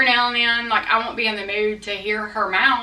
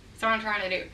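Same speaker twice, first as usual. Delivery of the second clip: quick laughing repeat, much softer; amused throwaway mutter; 6 dB quieter, faster than usual. Real, not acted. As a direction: laugh it out under your breath, fast. Laughing repeat of own line.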